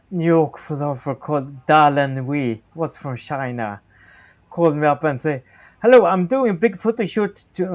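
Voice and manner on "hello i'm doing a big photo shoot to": put-on Chinese accent. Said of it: "he speaks in Chinese accent".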